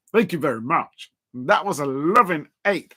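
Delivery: a hint of a low crooning tone; deep voice. Shown as a demonstration. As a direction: put on a mild deep loving voice. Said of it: "trying to sound like her with the deep voice".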